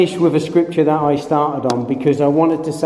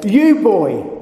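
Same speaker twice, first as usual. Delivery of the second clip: stern teacher; 4 semitones higher than usual. Retold or imitated. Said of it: "the teacher would normally say".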